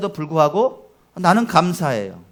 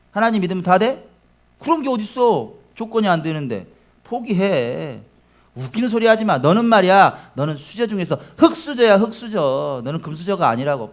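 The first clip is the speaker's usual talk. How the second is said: mocking cynic. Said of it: "이런 바람이죠".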